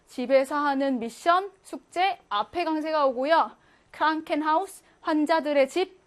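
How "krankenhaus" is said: Krankenhaus stressed on the first part Kranken; Krankenhaus, hit Kranken and keep haus light; front stress. Shown as a demonstration. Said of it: "환자 앞에 강세가 온다".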